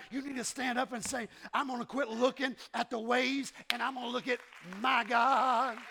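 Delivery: loud, driving preacher shout; fiery loud sermon climax; preaching at full force. Acted. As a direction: preach it home to the church.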